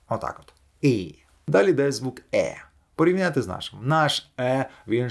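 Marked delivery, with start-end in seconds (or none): 0.8-1.2 І said short with a smile to the ears; smiling English i. Shown as a demonstration. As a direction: spread the lips wide and say І. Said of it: "Ми просто робимо улипку до вух і кажемо і". (коротке англійське і з усмішкою до вух)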